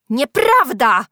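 loud, high denial; indignant cry. A narrator's reading. Julka denies the accusation, crying out. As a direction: deny it at full voice. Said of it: "zawołała Julka".

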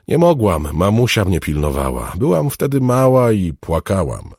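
put-on high, plaintive child's explanation; explaining little girl. A narrator's reading. Girl explains why she stayed inside, explanatory. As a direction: justify yourself in a girlish pitch. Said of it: "dodała wyjaśniająco".

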